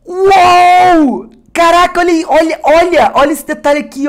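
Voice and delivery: high, loud cries calming slightly; excited shouting. Real, not acted. Pointing out the card's detail to viewers, excited high shouting. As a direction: shout in delight, then point it out.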